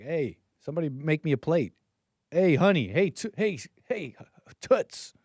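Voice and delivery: lightly voiced slob calling for his plate; mock couch slob. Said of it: "dirty white socks up on the couch. You're like".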